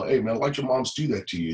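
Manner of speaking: put-on light street-talk accent. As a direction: quote it in casual street talk. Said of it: "he said it in street talk".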